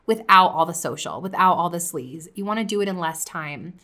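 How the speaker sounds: coffee shop vibe, easygoing sell; soft casual pitch. Shown as a demonstration. Podcaster to listeners, relaxed coffee shop pitch. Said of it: "I brought my tone down".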